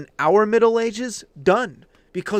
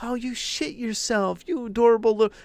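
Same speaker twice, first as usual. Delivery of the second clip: cooing mother; 4 semitones higher than usual. Retold or imitated. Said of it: "if the mother was like".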